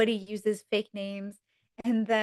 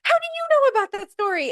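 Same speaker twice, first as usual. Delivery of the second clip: much higher, louder, indignant question; shocked Rachel; 5 dB louder than usual. Retold or imitated. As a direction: demand it in disbelief. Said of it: "she goes".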